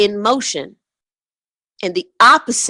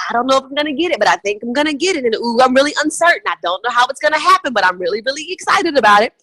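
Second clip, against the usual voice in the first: mock uncertainty; 4 semitones higher, faster than usual. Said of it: "that lower disbelief where you're like".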